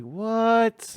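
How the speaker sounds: high, loud shocked cry; shocked "what". Retold or imitated. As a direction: blurt it out in disbelief. Crushed surprise, high and loud.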